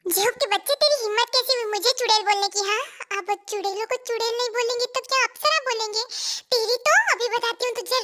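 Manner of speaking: mock-angry telling-off; indignant scolding. Girl scolds a friend for calling her witch, indignant. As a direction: scold with rising outrage, playfully overdone. Acted quarrel over being called witch.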